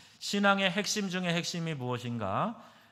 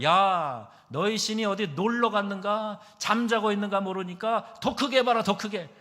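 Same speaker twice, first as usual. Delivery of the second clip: loud, high-pitched jeering; Elijah's scornful, raised-voice challenge; mocking taunt; 7 semitones higher, 6 dB louder than usual. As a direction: taunt them across a distance, raising the voice. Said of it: "엘리야가 조롱합니다".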